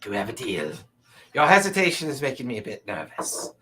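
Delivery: lightly voiced, slightly nervous merchant. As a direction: reassure a wavering customer in a light character voice. Game master voices the merchant.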